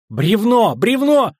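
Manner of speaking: very high, loud repeated shout; urgent warning cry. A narrator's reading. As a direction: scream the warning, rising in panic. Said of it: "Вовремя я крикнула". (отчаянно кричит, предупреждая)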